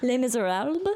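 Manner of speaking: clumsy attempt at French pronunciation; failed French accent. Shown as a demonstration. Host who can't do accents naming the musical, failed French accent. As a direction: try French on the title and miss. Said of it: "I can't do a French accent".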